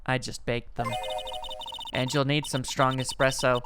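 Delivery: low, soft, unhurried offer; gentle hostess. Acted. Woman offering cookies to loan customer, gentle hostess. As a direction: serve it very quietly.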